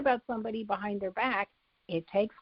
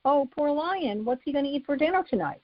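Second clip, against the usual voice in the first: higher, sing-song mock sympathy; mock pity; 6 semitones higher than usual. Fleeing the lion, higher mock sympathy. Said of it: "you're not gonna feel compassion".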